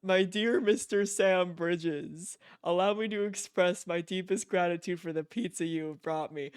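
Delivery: lightly voiced, stately letter-writer; formal letter reading. Player reading Higgs's email aloud, mildly formal voice. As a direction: read it like a mildly pompous gentleman's letter.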